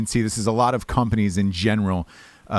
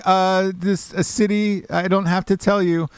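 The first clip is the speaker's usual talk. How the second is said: a hint of an Indian accent, pitched higher; mock Indian accent; 7 semitones higher than usual. Caller imitating the agent dodging where he's from, hint of Indian accent. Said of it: "this first guy sounded Indian".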